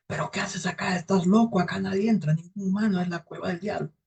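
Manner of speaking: old cave woman's incredulous warning, lightly acted; alarmed old woman.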